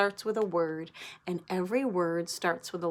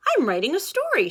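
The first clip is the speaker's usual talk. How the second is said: big sister voice; 8 semitones higher, 6 dB louder, faster than usual. Acted. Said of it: "she says".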